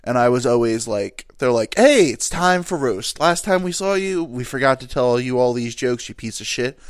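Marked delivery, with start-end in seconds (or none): 1.8-6.8 lightly voiced heckling relative; roasting relative. Relatives ribbing him at a family event, teasing.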